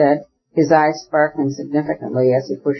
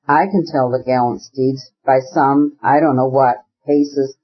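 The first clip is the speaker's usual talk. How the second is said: mock-grand recital, slow on the last line; declaiming. A narrator's reading. Oblonsky toasting Levin's luck, lightly declaimed. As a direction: recite it like verse, half in jest. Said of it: "declaimed Stepan Arkadyevitch".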